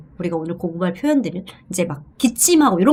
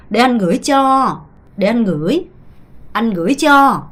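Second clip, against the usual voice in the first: model variants; much slower than usual. Shown as a demonstration. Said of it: "이렇게 모두 다 표현이 된다".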